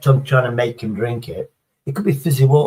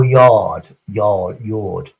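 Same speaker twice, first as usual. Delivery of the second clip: Arkansas accent; 4 dB louder, much slower than usual. Shown as a demonstration. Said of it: "You've got that accent".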